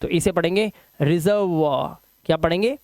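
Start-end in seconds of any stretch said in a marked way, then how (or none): 1.0-2.0 "रिजर्व" as REZ-er-vwaa, like reservoir; careful model of "रिजर्व" ending vwaa. Shown as a demonstration. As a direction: draw out a final waa on "रिजर्व". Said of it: "वा हो जाता है".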